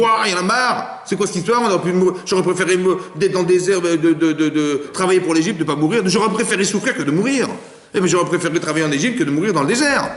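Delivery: the Hebrew at the sea grumbling to Hashem, lightly voiced; complaining voice. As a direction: mildly whine out the complaints, up in pitch.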